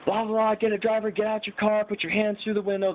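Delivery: high, droning police loudspeaker orders; mock loudspeaker cop. Cop ordering the pulled-over car, high mock loudspeaker voice. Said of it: "we hear this guy on the loudspeaker".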